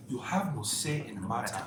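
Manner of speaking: lightly imitated African accent; mock African accent, lightly done. Host repeating the favourite line in a light African accent. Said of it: "African voice".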